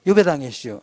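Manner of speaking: light Chungcheong dialect ending; Baek Jong-won. Shown as a demonstration. Lecturer drilling the memory phrase, Chungcheong accent. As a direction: mildly mimic a Chungcheong accent. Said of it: "이렇게 백종원 버전이죠".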